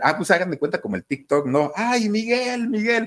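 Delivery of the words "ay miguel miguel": very high-pitched, loud yelling voice. Telling how a man shouts after a taxi carrying his brother: imitating someone yelling. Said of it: "Empieza a gritar".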